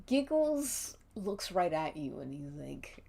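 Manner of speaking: usual speaking voice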